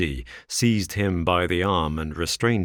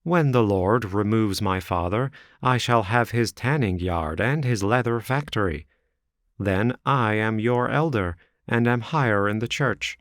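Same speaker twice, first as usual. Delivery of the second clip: higher, self-satisfied rival; a hint of the bragging suitor; 4 semitones higher than usual. Rival suitor to Ferrier, mildly boastful. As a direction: brag about the inheritance.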